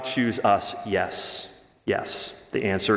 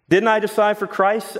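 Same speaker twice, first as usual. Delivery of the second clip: much higher, mock-offended question; indignant; 10 semitones higher than usual. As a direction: squeal it like an affronted objector. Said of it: "asks somebody else".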